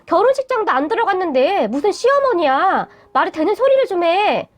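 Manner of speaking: understated acted anger; angry retort. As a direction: argue back with restrained anger. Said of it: "화가 나서 말을 했는데".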